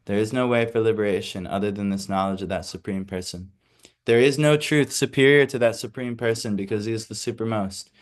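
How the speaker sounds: formal read-aloud lecture voice; reading the commentary. Acted. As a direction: read the purport to the class. Reads commentary from the book.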